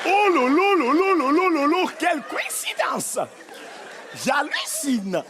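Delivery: hammed-up astonished woman, high and drawn out; mock astonishment. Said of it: "quand elles sont étonnées, elles adorent faire". (étonnement surjoué)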